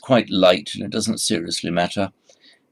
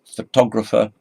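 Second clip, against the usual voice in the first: photographer higher and louder, stressed on TOG; pho-TOG-rapher, second syllable strong; 4 semitones higher, 6 dB louder than usual. Shown as a demonstration. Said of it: "So it's the stress".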